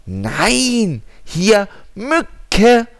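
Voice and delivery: high, loud squeaky mosquito; tiny mosquito voice. Acted. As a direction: chirp it like a tiny insect. Mosquito answers.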